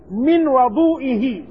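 "وضوئه" as wa-DOO-i-hi; slow "وضوئه" with an open wa-; fatha on the waw. Shown as a demonstration. Teacher illustrating the open vowel for students, fatha on the waw. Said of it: "الواو المفتوحة".

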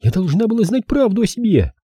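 put-on heated high-pitched girl, volume held in; mild furious cry. A narrator's reading. Girl insists on the truth, understated furious cry. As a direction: insist angrily, pitched well up. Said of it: "яростно крикнула она".

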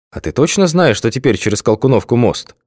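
lightly voiced questioning passenger; character voice. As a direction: ask the driver doubtfully. Character asks driver.

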